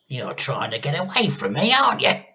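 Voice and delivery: rising to a very high, loud accusation; accusing hag. A narrator's reading. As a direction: catch him out. Grandma voice.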